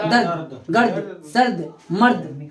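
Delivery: each of "दर्द, गर्द, सर्द, मर्द" slow, clipped as one syllable; slow word drill. Shown as a demonstration. Teacher drilling students on similar words, slow and clear. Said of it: "क्या होता है?".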